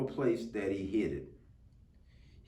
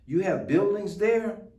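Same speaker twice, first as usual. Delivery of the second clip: higher, amazed gasp; 8 semitones higher, 5 dB louder than usual. A narrator's reading. Horton amazed that the speck has buildings, higher gasp. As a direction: catch your breath in wonder. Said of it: "Horton gasped".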